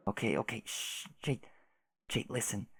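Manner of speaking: soft shh, barely breathed; a gentle whispered hush. Acted. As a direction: whisper to calm her down. Hushing the upset friend.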